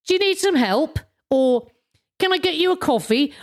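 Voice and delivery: friendly, caring approach; kindly offer. Acted. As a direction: offer help to a stranger, lightly acted. Acting out a kind offer.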